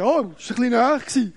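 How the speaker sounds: quick, offhand denial; mock innocent. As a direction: brush it off breezily. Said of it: "habe gesagt". (schnell und betont beiläufig)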